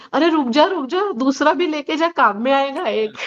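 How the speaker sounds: a mild retold shout after the shoe thief; mock yell. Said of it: "मी त्याला काय म्हटलं ओरडून".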